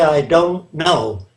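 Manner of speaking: I don't know said slowly, the don't stressed; slow, honest admission. Shown as a demonstration. Urging honesty on an interviewer, a slow admission. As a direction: let I don't know come out slow and plain. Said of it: "Learning to say".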